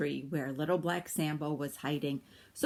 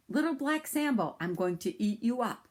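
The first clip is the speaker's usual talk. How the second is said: tiger voice; 4 semitones higher than usual. Acted. Tiger threatens Sambo.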